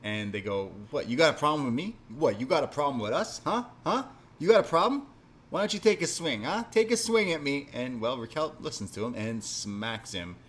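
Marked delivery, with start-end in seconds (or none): 0.9-7.7 high, loud mock challenge; cocky taunt. Host imitating wrestler daring Raquel to swing, high and cocky. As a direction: goad him into a swing, hammed up.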